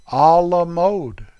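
slow, drawn-out French "A la mode"; attempted French accent. Shown as a demonstration. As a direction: stretch "A la mode" out in mock-French. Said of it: "Let me say it right".

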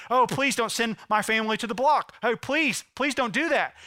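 high-pitched acted plea; begging, pleading. Servant pleading for his family to be spared, begging. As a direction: beg desperately on someone's behalf. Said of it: "He begins to beg, plead".

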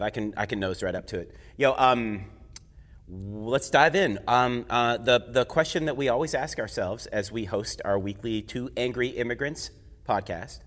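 muffled by a face mask; talking through a mask. Real, not acted. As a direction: speak through a cloth mask. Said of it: "let me take this mask off first".

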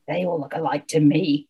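low-key surly grumble; surly growl. Acted. Sam unimpressed by the witch's toads, mildly growled. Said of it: "growled Sam".

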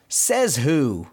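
lightly mock-indignant challenge; a touch of cartoon defiance; mild retold yell. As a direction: demand an answer, without shouting. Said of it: "Donald kinda yelling at the spring".

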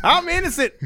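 high whiny protest; high squeaky mock voice. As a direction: whine it high like the inmate. Mocking inmate's high voice.

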